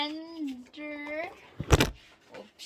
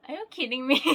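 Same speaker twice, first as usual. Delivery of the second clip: loud excited disbelief; 3 semitones higher, 11 dB louder, faster than usual. Real, not acted. Opening a card.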